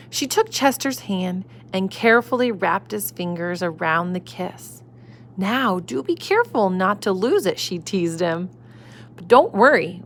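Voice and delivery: gentle storybook reading voice; reading to children. A narrator's reading. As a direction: read it like a bedtime story. Reading picture book to children.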